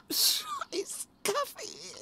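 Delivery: high, very slow bitter curse. Acted. Host cursing the coffee, high and very slow. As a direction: spit out the curse slowly.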